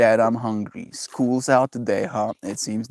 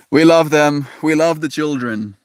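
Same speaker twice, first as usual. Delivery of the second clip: louder and higher on love; emphatic; 4 semitones higher, 5 dB louder than usual. Real, not acted. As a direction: declare it loudly. Emphatic repeat.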